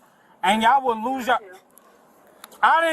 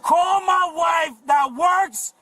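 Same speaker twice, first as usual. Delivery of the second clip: shouting. Real, not acted. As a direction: yell it as a demand. Father demands call to wife.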